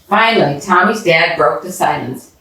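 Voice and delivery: ordinary delivery, nothing marked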